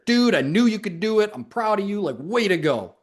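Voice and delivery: lightly voiced proud praise; cheerleader. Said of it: "you're the biggest cheerleader".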